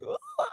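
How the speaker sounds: tiny high-pitched mock squeal; childhood scream. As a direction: imitate a small, soft shriek at a snake. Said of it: "and I was like".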